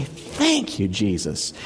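soft, humble prayer of thanks; hushed, meek gratitude. Acted. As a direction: say it meekly, dropping softly away. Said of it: "You just meekly say".

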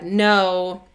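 speaking from the side of the mouth; out of mouth corner. Acted. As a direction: push the words out one corner of the mouth. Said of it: "I'm talking out of the side of my mouth".

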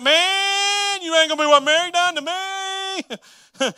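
high, loud mock wail of outrage; hammed-up shouted complaint for everyone to hear; public ranting. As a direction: holler it out with long stretched words. Mock public blasting on Facebook.

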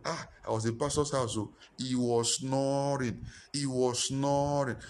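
drawn-out mock gossip, slow on snoring; slow, lightly voiced gossip about the pastor; a hint of a gossiping member savouring it; gossiping church member.

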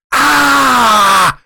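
long wordless shout at full volume; high, sustained yell of alarm; loud yell. Retold or imitated. Man waking from a dream, shouting at the top of his voice. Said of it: "Like, really loud".

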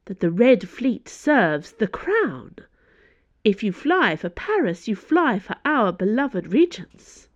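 a hint of a lofty lecture on loyalty; imperious Cardinal. Cardinal warns Dana.

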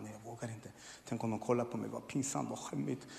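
soft, low, scared murmur; timid hushed refusal. Retold or imitated. René hushed and afraid, refusing to raise his hand. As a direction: shrink away, too embarrassed to be seen.

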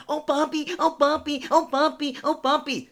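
high falsetto, loud repeated moaning; squealed mock ecstasy, chanted over and over; mock moaning bottom. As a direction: imitate a whiny, over-the-top lover in falsetto. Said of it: "bottoms who calls somebody Poppy".

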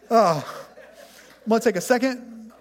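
laughing. Real, not acted. Still laughing at own joke.

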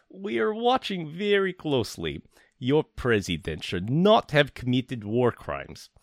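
put-on slow, heavy Russian accent, high at the start; hammed-up Russian villain accent; reading a ransom note in a thick Russian accent. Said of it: "read this with a really thick Russian accent".

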